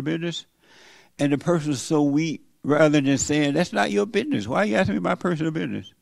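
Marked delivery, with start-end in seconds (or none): 3.5-5.9 higher-pitched, indignant comeback; indignant retort. Acted. Weak person shown how to answer a nosy asker, indignant. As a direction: push back at a nosy question, pitched up. Models a firm reply to prying.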